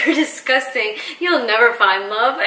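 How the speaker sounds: mock scolding through a laugh; giggling insult to a snake; laughing Michael quote. Wife laughing while quoting Michael to snake. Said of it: "He's like".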